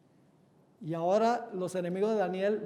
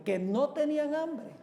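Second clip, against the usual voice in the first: higher echo question, stress on NO TENÍAN; incredulous echo; 6 semitones higher than usual. Acted. Preacher answers a doubter about the lions, incredulous echo. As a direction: throw "no tenían hambre" back in disbelief. Throws the doubter's objection back.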